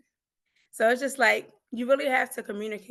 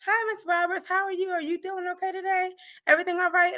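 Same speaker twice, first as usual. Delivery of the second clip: chirpy receptionist; 7 semitones higher than usual. Retold or imitated. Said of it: "she kept saying".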